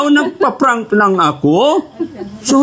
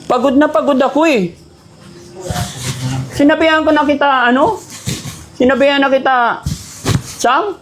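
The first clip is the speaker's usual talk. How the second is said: higher, mock-exasperated complaint; prank scolding; 4 semitones higher than usual. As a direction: grumble at them as a put-on. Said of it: "masigawan tsaka mapagalitan".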